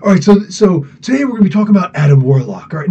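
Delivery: lightly voiced eager video host; Rob. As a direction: try out an impression of a channel host. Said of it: "see if I can do Rob".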